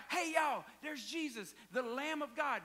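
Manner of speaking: loud, high call to the crowd; John hollering to everyone, pointing out Jesus. Retold or imitated. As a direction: holler it across the riverbank. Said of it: "He hollered out".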